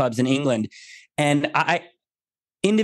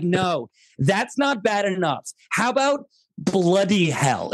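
mock British; 3 semitones higher, slower than usual. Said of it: "And the British people were like".

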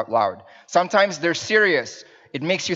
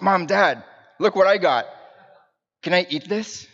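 higher-pitched imitation of an eager little boy; young son; 4 semitones higher than usual. Boy showing Mom and Dad his gum, imitated child voice. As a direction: show the parents a find in a raised kid voice. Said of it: "one of our boys found gum".

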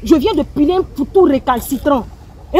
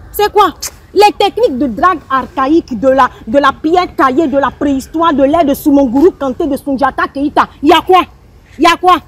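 fed up, demand an answer; worked-up annoyance. Acted. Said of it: "mais t'es vénère, tu te calmes un peu". (agacée, vénère)

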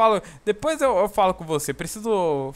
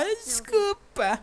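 high, slow, whiny mock apology in a far-off put-on voice; 13 semitones higher, 6 dB quieter, much slower than usual. Gamer mocking the cheating sim's apology, high and whiny. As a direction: mimic a cheating guy begging sorry, high and drawn out. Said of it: "depois vai".

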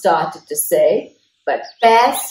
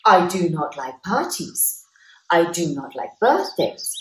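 announced. Acted. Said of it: "Bear announced".

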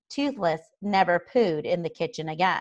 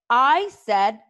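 slow, loud, high command; frustrated yell; 5 semitones higher, 8 dB louder, much slower than usual. A narrator's reading. Hiccup repeating an order to his stubborn dragon, frustrated yell. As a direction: hammer out each word in frustration. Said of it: "Hiccup repeated in frustration".

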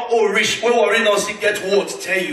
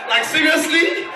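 high, slow incredulous question; mock disbelief; 7 semitones higher than usual. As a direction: drag out the disbelief. Incredulous repeat to audience.

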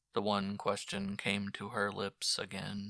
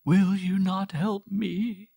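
louder, higher, slow desperate plea on "Will"; pleading; 11 semitones higher, 13 dB louder, slower than usual. Acted. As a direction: plead with heaven, leaning on "Will". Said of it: "she pleaded".

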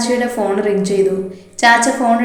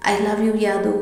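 trembling voice; 4 dB quieter, slower than usual. A narrator's reading. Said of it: "വിറയാർന്ന സ്വരത്തോടെ".

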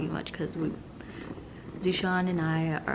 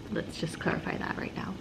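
whispering; 6 dB quieter than usual. Real, not acted. Whispered aside.

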